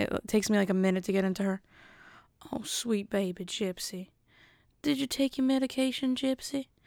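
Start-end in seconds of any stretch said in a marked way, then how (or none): 2.5-6.6 put-on motherly voice, high and soft. Showing how the mother talks to Gypsy after a failed first try, imitating Gypsy's mother. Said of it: "the mother talks like this".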